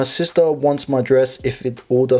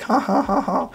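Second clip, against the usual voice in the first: awkward laugh; 8 semitones higher than usual. Acted. Guessing how the sister's joke landed, awkward laugh. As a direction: fake high-pitched ha-ha. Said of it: "like, an awkward laugh".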